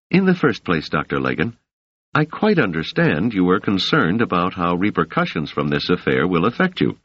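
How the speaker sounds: a hint of the young woman, measured and soothing; Doris voice.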